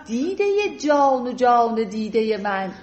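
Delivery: slow, measured verse reading; unhurried classical verse for a class; poetry recitation. Acted. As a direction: recite Persian couplets with pauses between phrases. Recites the poem's love scene.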